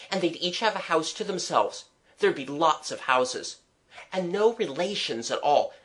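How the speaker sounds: put-on mildly keen, lilting child; growing enthusiasm, understated; warming to the subject. Child laying down rules for the city, mildly eager. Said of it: "warming to my subject".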